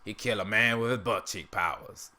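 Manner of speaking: lightly attempted character voice; an unsure go at a cartoon character; Uncle Ruckus impression. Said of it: "I can't do that one as well".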